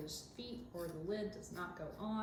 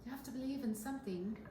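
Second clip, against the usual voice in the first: weak attempt at a Southern belle accent, a bit higher; half-hearted southern accent; 5 semitones higher than usual. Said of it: "You gotta say it with the southern accent".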